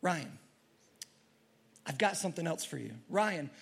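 soft, hushed voice of God; a gentle inner voice calling his name; small voice. Retold or imitated. God speaking softly to Ryan in his soul, hushed. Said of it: "in this small voice".

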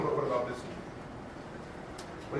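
slow whispered second thought; doubtful whisper. Retold or imitated. Torn producer whispers to himself, slow and doubtful. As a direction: whisper the doubt creeping back. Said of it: "And I'd say".

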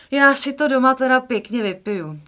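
put-on a girl fretting she'll be punished at home; girl's worried exclamation. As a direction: she expects trouble at home. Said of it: "řekla Jiřka".

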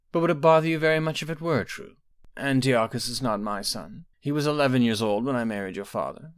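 a hint of a knowing old sorceress; mother calmly probing her daughter, lightly voiced; aging mother. Quintilla speaks to Potema.

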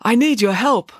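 high-pitched earnest appeal; lightly pleading, sincere. A narrator's reading. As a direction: ask for help in all sincerity. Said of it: "said Binky earnestly".

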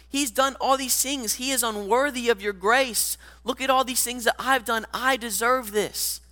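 petulant grown son protesting to his father; whiny older son. Acted. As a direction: whine at dad like a sulky older son. Older son's whiny complaint to dad.

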